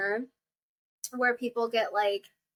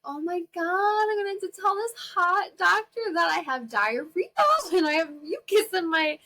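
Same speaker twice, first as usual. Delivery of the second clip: high, giggly, half-crying panic; embarrassed laughing panic; 7 semitones higher than usual. Retold or imitated. Telling the hot doctor about her symptoms, giggling in mortified panic. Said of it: "And I'm like".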